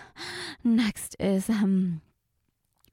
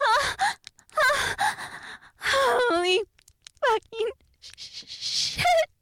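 outdoor voice; 5 semitones higher than usual. Acted. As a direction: let it all out, shouting with no restraint. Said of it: "Outdoor voice".

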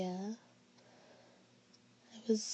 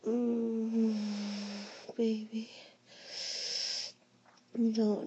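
aroused moaning; 3 dB louder, much slower than usual. Acted. Being pleasured.

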